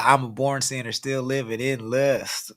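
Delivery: lightly drawled country twang; a hint of Southern country singer; imitating country accent. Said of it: "it's the accent for me".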